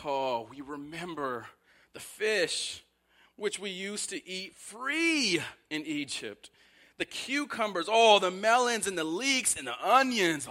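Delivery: hammed-up whining lament over lost food; mock weeping. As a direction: whine like a sulking crowd. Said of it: "wept again and said".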